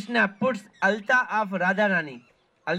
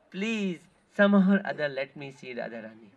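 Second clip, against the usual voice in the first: begging and pleading; 4 semitones lower than usual. Retold or imitated. Krishna pleading with the maidservants to see Radharani, understated begging. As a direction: plead gently, dropping to a humble hush. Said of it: "Begging and pleading".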